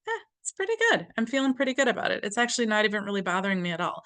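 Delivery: fast, breezy and unbothered; easygoing mock shrug; mild mock relief. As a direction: toss it off lightly. Example of a calm one.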